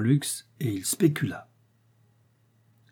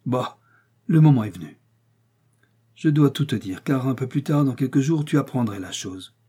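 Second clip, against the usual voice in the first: exclaiming; 2 semitones higher than usual. Acted. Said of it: "il s'écria".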